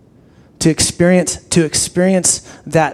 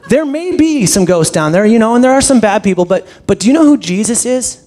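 a hint of an earnest little girl preaching; little evangelist daughter; 5 semitones higher than usual. Pastor imitating his daughter, lightly voiced eager child. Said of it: "my six-year-old little evangelist".

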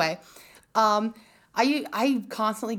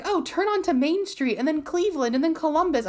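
high, lively mock of dad rattling off streets; imitating dad; 9 semitones higher, 4 dB louder than usual. Daughter imitating her dad giving street directions, high and breezy. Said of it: "my dad will be like".

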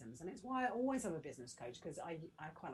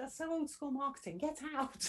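much higher, louder mock scolding; hammed-up teasing get out; teasing dismissal; 9 semitones higher, 5 dB louder than usual. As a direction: playfully throw him out of the room. Wife dismissing husband's idea.

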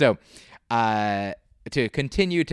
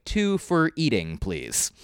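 playful wording; slower than usual. Shown as a demonstration. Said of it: "I might say".

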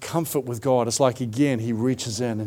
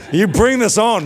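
excited; 8 semitones higher, 6 dB louder than usual. Real, not acted. Laughing praise of the crowd.

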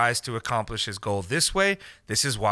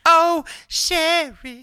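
mock surprise; 6 dB louder, much slower than usual.

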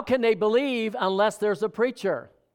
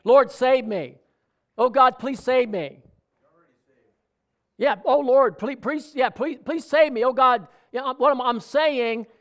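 pleading cries to God, pitched up; begging God to save him, higher and louder; mock begging; 5 semitones higher, 4 dB louder than usual. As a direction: act out a desperate prayer, hammed up. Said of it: "You could be begging God".

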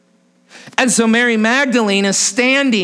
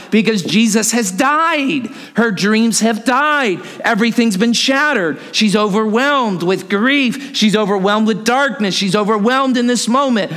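emphatic, insistent repeated phrases; impassioned preaching. Real, not acted. Preacher explaining why Mary weeps, impassioned. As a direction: drive each reason home.

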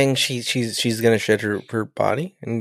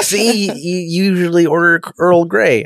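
added for effect; 6 semitones higher, slower than usual. Retold or imitated. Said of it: "I added that for effect".

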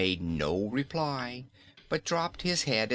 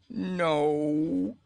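high, loud contrary no; stubborn refusal; 7 semitones higher, 4 dB louder than usual. Acted. Nome King refusing Dorothy, stubborn. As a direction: dig in your heels. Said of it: "persisted the contrary Nome King".

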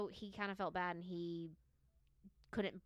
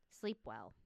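lower, ominous sleep well; spooky sign-off; 9 semitones lower than usual. Retold or imitated. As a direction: end on a low creepy note. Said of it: "their catchphrase".

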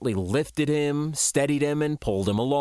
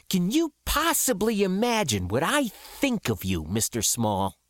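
higher-pitched righteous anger; outraged confrontation, pitch lifted; indignant accusation; 3 semitones higher than usual. Acted. Accuses a man of atrocities.

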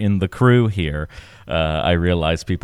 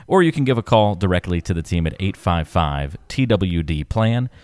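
ad read. Acted. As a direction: read it like a sponsor spot. Ad read with contact details.

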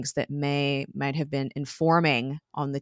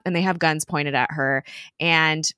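ordinary talk

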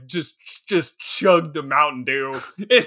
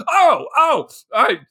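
mock horror; 5 semitones higher, 3 dB louder than usual. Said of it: "we would all be like".

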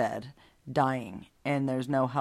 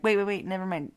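hasty backtracking; 5 semitones higher, 3 dB louder than usual. Acted. Acts out hastily retracting a prayer.

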